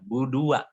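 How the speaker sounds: "budua" as one word, like "berdua"; misjoined syllables. Shown as a demonstration. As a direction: stop short on "budua", fusing budu and wa. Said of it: "Be-, berdua". ("budua" dibaca menyatu seperti kata "berdua")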